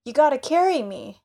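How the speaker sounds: lightly voiced boy begging to be carried. Lamy asking the spearman to carry him.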